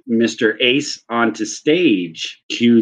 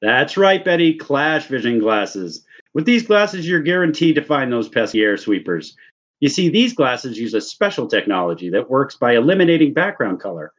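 infomercial pitch; faster than usual. Pretend.

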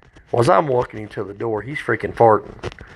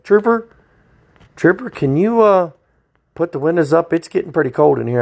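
higher, pleading trooper trooper; whiny old man; 5 semitones higher than usual. Retold or imitated. Old prisoner in the back begging the trooper to close the windows, high and whiny. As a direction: beg for the windows up.

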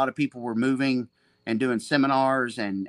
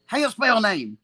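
higher, clipped Brazilian coach calling a name; Seneca impression; 8 semitones higher, 4 dB louder than usual. Coach Seneca calling his student by name, imitated high. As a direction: call his name like the old-school master. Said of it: "I got a good Seneca impression".

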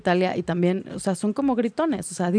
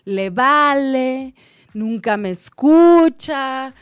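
slow, louder, drawn-out sulky complaint; mock aggrieved inner voice; 2 semitones higher, 4 dB louder, much slower than usual. Imitating a hurt partner's inner dialogue, slow and louder. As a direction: drag each hurt phrase out slowly, like a wronged partner. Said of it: "tener un diálogo donde dices".

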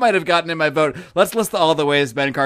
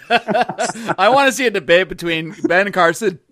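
coughing through a swallow; talking while choking on a drink; 2 semitones higher, slower than usual. Real, not acted. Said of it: "excuse me, I'm choking on my drink".

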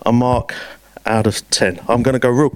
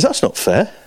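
higher, outraged objection; indignant protest; 7 semitones higher than usual. Retold or imitated. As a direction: burst out with the unfairness. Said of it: "kicked off".

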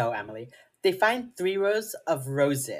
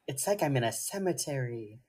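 softer, slightly low imitation of a gloomy goth girl; lightly voiced emo kid, hushed; a hint of goth gloom; 3 semitones lower, 6 dB quieter than usual. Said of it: "Okay, emo kid".

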